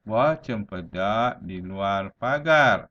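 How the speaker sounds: measured verse line with drawn-out words; careful model reading of a rhyme; unhurried pantun recitation. Shown as a demonstration. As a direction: recite it without rushing, pausing lightly mid-line. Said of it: "perlahan-lahan".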